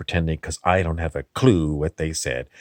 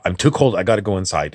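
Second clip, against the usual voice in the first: snapping I'm too cold; 5 dB louder, faster than usual. Retold or imitated. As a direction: blurt it out like finally breaking free of the cold. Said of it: "and I go".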